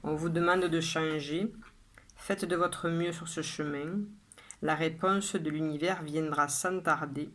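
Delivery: measured poem reading with pauses after each line; poem recitation. Acted. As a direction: recite it line by line, evenly and deliberately. Reads own poem aloud. (lecture de poème posée, vers par vers)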